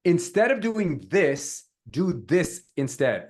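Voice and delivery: slow, with weight on "this"; emphatic hook. Shown as a demonstration. Coach gives another hook to copy, emphatic. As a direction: spell it out slowly, leaning on each "this".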